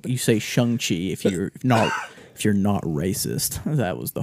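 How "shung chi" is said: Shang-Chi with an "uh" vowel, "Shung-Chee"; first syllable of Shang-Chi rhymes with "sung"; approved pronunciation. Shown as a demonstration. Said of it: "apparently this is the thing".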